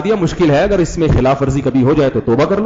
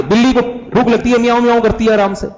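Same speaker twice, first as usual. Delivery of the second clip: gentle cat; 6 semitones higher than usual. Retold or imitated. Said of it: "آرام سے بھی کہہ سکتا ہے".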